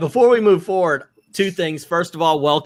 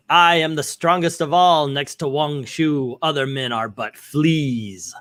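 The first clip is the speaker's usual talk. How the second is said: slow boastful warlord; 2 semitones lower, slower than usual. Acted.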